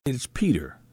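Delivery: hushed whisper on Peter. Real, not acted. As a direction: drop to a whisper for weight. Sermon stresses Peter's new role.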